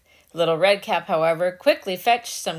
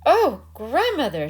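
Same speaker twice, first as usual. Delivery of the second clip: put-on a higher, wondering little girl; Little Red Cap; 6 semitones higher than usual. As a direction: innocent girl, puzzled.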